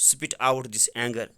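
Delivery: slow, deliberate classroom reading; slow reading aloud. Shown as a demonstration. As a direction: drag each word out for the class. Teacher reads English text aloud. (آہستہ آہستہ پڑھنا)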